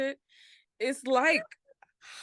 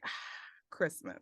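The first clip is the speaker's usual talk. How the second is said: soft, low blissful sigh; hushed, dreamy contentment; contented sigh; 7 semitones lower, 10 dB quieter than usual. Acted. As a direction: sigh it out, melting into the holiday feeling. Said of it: "you're just like".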